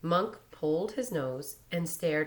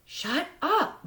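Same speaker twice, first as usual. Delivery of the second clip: angry; 14 semitones higher, 5 dB louder than usual. A narrator's reading. Angry boy snaps at taunter.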